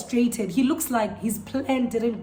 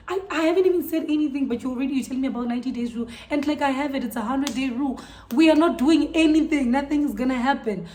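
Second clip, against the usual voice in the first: louder, higher protest building on the refusal; retold indignation, firmly shutting him down; indignant retort; 3 semitones higher, 4 dB louder, faster than usual. Retorting to a pushy date.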